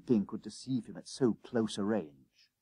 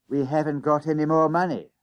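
put-on higher-pitched boy's protest; worried schoolboy; 5 semitones higher, 4 dB louder than usual. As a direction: plead it as a schoolboy without the fare. Worried boy confesses to conductor.

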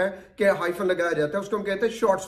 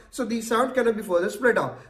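slow emphasis; much slower than usual. Shown as a demonstration. Teacher explains slowly.

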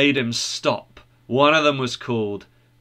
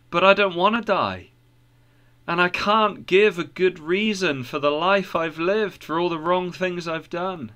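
lightly voiced troubled pilgrim, a little higher; understated distress in a higher voice; troubled Christian; 5 semitones higher than usual. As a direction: confess a heavy burden, pitch raised.

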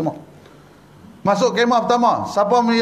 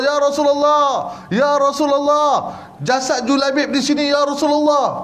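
higher, urgent-style call to a leader; 4 semitones higher than usual. Acted. Companion calls the Prophet to the body he found, calling out. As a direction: call out a discovery from afar.

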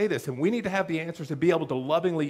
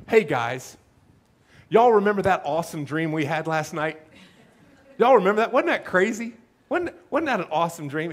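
louder, eager "y'all remember"; mock excited preacher; 4 dB louder than usual. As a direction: hype up the dream to the crowd.

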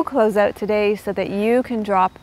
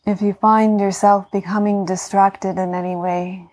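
guided meditation. Acted. Yoga teacher talking listeners into healing rest, calm meditation voice.

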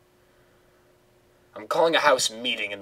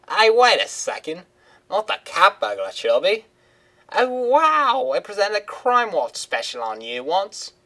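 higher, louder, thrilled woman's voice; Simone, excited; 10 semitones higher, 5 dB louder than usual. Acted. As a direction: she suddenly recognises a famous burglar. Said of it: "her voice is hard to do".

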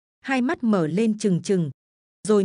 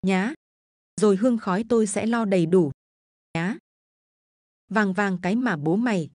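a lightly voiced bullying son, wheedling; demanding drunk son. Drunken son pressing his mother for gold, wheedling. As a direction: coax and threaten the old mother for her gold.

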